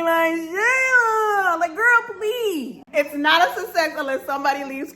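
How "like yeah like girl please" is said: dismissive scoff. Real, not acted.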